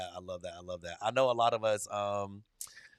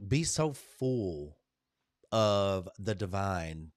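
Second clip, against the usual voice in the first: slow spiritual message; 4 semitones lower, much slower than usual. Real, not acted.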